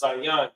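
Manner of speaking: "zayan" as zah-YAHN; pronounced "zayan". Shown as a demonstration. Teacher gives the word to repeat, sounding out "zayan". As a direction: model "zayan" in two open syllables. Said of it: "it's pronounced".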